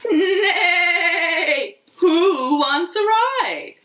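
high, laughing horse neigh into the question; high playful horse for the kids. Acted. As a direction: play a cheerful horse offering rides. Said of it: "asked Mister Horse".

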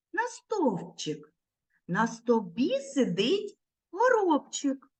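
put-on slow, sing-song rhyme for little kids; children's rhyme. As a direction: recite the verse gently and slowly. Teacher recites rhyme.

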